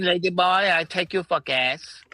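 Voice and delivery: mock Asian accent. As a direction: tease Spin in a put-on Asian accent. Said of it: "Now you sound like a Chinese prostitute".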